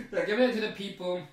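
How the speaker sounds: fast, laughing repeat of the line. Real, not acted. Amused by the drug handout, repeats it laughing fast. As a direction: laugh through it as you rush the words.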